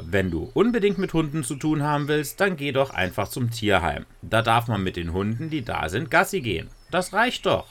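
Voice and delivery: a hint of a mother brushing it off; mother waving off her daughter's dog wish; dismissive mother. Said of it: "Sie sagte zu Lisa".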